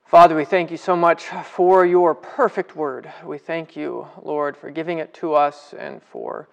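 earnest spoken prayer to God. Acted. Pastor praying before the Bible study. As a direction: pray sincerely over the group.

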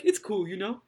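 imitating a dodgy Jamaican-surfer accent through laughter; mock surfer-Jamaican accent, barely holding back giggles; odd greeter accent. Host quotes the greeter's parting line, odd Jamaican-surfer accent. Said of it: "what even is that accent".

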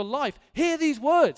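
deliberate pulpit warning; slow emphatic charge. Real, not acted. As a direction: drag each word out for the youth. Preacher charging the youth.

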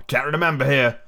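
lightly voiced sweet fawn; soft, sweet fawn. A narrator's reading. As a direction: gently voice a storybook creature. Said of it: "had a soft, sweet voice".

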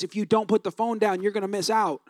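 wife's low, soft warning; hushed, firm caution from the bed; wife in labor quietly warning her husband, low and soft. Retold or imitated.

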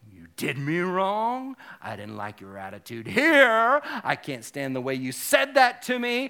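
lightly acted grudge-holder's grievances; mock aggrieved. As a "do wrong hoarder" listing grievances, mock aggrieved. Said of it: "I am a do wrong hoarder".

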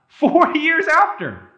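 high, loud and slow with a laugh in it; amazed exclamation. Real, not acted. Preacher marvelling to the congregation at the timespan. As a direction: stretch it out in laughing disbelief. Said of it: "This is not four months later".

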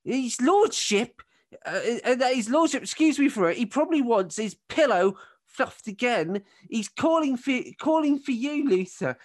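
high-pitched, entitled nagging wife; shrill wife. Acted. Wife tells husband his lordship is calling, shrill. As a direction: complain loudly upward in a shrill voice.

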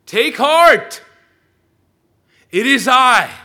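shouted high and loud over the wind; loud call. Acted. Jesus calls out loud to disciples over the wind. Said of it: "It was probably loud".

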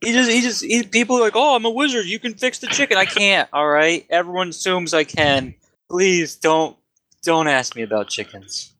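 an overworked wizard sick of chicken questions; fed-up wizard. Acted. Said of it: "No, he's like".

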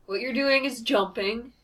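lightly put-on British game voice; attempted British accent. Quoting a game's instructions, attempted British accent. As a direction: have a shaky go at a British accent. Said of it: "I can't do a British accent".

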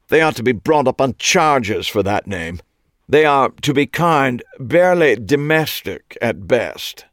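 loud high scoff; scoffing British Clive. A narrator's reading. Clive mocking the restaurant's name to Eli. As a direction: spit the word out in disdain.

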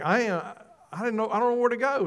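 fast, rising frantic plea. Retold or imitated. Preacher retelling his plea to God, fast and frantic. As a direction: rush it out like a lost man begging.

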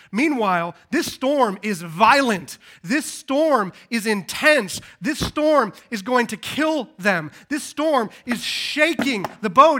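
loud, hard-hit storm storytelling; forceful preaching. Real, not acted. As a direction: preach the danger at full force, punching each key word.

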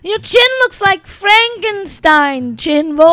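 high, drawn-out schoolyard jeer; mock taunting. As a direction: playfully heckle a friend, stretching the words. Mock bullying over a chin nickname.

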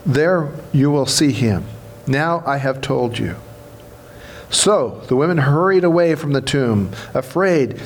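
measured, solemn Bible reading; scripture reading. Acted. Reads Easter Gospel passage aloud.

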